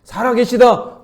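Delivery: loud, high, commanding reply; voice of Jesus. Retold or imitated. Jesus rebuking the voices of death, loud and commanding. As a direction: answer the world with authority. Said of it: "그렇게 얘기하신다".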